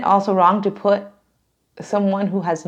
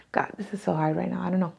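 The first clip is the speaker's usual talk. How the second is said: emotional, near tears; 9 dB quieter, much faster than usual. Real, not acted. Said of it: "I don't know why I'm so emotional".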